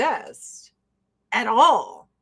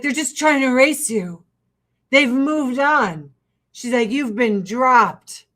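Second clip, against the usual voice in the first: impression of Janice; 4 dB louder than usual. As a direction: deliver it like a blunt mentor. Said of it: "the impression is immaculate".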